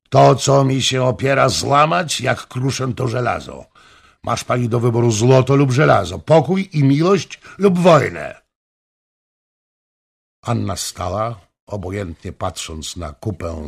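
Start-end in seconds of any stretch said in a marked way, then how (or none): 0.1-8.4 loud, higher royal threat; threatening king. A narrator's reading. King threatening the woman who resists, loud. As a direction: hit her with it, loud.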